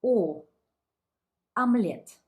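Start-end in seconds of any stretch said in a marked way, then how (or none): 1.6-2.2 омлет said firmly, stress on the second syllable; Russian omlet. Shown as a demonstration. Teacher sounding out омлет for learners. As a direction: voice омлет as amlet. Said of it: "transcribed it as omelette".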